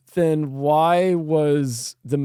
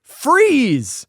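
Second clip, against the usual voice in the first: drawn-out, higher-pitched retold shout; mock cop yell; 9 semitones higher than usual. Cop orders the Djinn to stop, mock yell. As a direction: imitate a cop's yell without full volume. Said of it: "yells at the Djinn".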